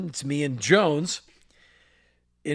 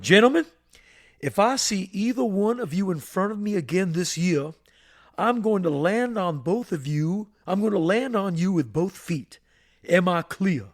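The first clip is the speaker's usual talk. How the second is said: lightly voiced stern general; 3 semitones higher than usual. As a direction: boom it out like the school disciplinarian. General Price gives the final warning.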